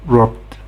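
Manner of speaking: "robbed" ending in a voiced d. Shown as a demonstration. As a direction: pronounce "robbed" as one syllable, robd. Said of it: "the E D is pronounced".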